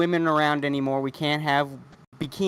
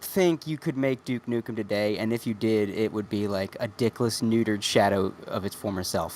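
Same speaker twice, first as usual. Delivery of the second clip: quiet; 9 semitones lower, 6 dB quieter than usual. Real, not acted. Dropping to a low murmur.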